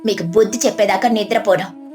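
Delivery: angry and solemn. Acted. Parvati rebuking the cheating trader for her husband, solemn anger. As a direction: stand over him and condemn him gravely. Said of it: "Parvati కోపంగా, గంభీరంగా".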